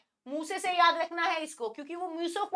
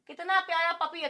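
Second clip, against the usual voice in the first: cooing over puppy; 2 semitones higher than usual. Retold or imitated. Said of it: "बोलते हैं ना हम".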